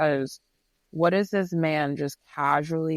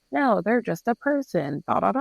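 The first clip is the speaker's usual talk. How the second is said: higher-pitched self-talk; dismissive self-reassurance; 5 semitones higher than usual. Retold or imitated. Talking herself out of seeing a creepy person, dismissive. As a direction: brush it off in a higher voice.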